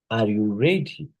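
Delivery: "Are you" low, "ready" lifted; low start, rising end. Shown as a demonstration. Teacher demonstrates a closed question, "Are" low, rising to "ready". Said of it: "and rise at the end".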